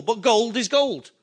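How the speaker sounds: laughing repeat. Acted. Preacher repeats the point, laughing.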